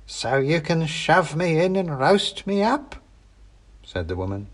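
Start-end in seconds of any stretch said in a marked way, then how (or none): 0.1-3.0 higher, slow mocking crone voice; a crafty old hag scoffing at the trick; suspicious old witch.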